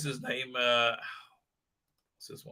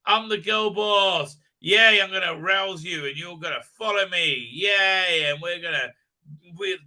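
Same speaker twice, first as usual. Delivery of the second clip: mocking girl boss voice. Mocking the show's heroine, a chirpy sarcastic girl boss voice. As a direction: ham up a peppy self-important heroine. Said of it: "And she goes".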